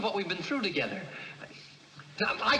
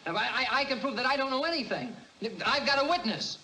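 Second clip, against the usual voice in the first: rising panicky stammer; getting more frantic; nervous stammer; 4 semitones higher than usual. Acted. Nervous stammering defense, rising pitch.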